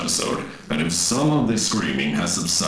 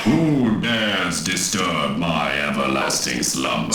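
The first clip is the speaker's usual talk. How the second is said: ancient rasping undead king. Acted. Demon answers the summoning.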